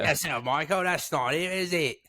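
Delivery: mock British accent, lightly done; bad British accent. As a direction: ham up a British official's polite retort. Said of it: "the worst British accent I've ever done".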